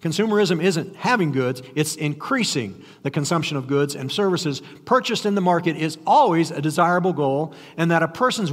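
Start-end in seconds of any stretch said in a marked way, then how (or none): 1.8-3.9 "increasing" picked out as the key word; stress on INCREASING. Shown as a demonstration. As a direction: lean on "increasing". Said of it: "emphasis on the word increasing".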